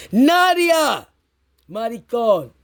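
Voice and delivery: imitating the super yelling a name down the phone, high and loud; hammed-up shout in Spanish, mocking him; mock Spanish phone screaming. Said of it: "screaming on the phone in Spanish".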